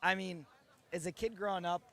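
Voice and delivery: hoarse after screaming in the car. Real, not acted. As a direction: voice worn hoarse from yelling. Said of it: "You're already hoarse".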